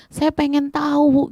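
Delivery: high, drawn-out plea; acted calling out. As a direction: plead aloud to be told. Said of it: "dia teriak-teriak gitu ya". (seruan memohon bernada tinggi)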